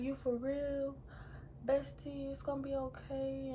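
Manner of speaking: gently reassure, imitating a concerned best friend; comforting. Best friend hearing the pregnancy news, softly comforting. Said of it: "comforting me".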